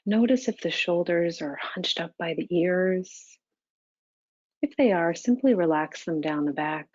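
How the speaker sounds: calm, even meditation guidance with long pauses; unhurried, level meditation-teacher delivery; guided meditation. Real, not acted. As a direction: guide them gently into stillness, leaving space between phrases.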